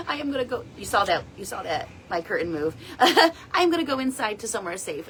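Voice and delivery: real nervous laughter after a startle; nervous laughing. Real, not acted. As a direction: laugh off the fright at the window. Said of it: "that scares me".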